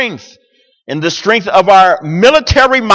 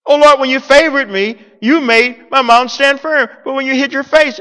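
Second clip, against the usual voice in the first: whiny entitled David; 6 semitones higher than usual. Retold or imitated. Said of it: "sounds like David believed".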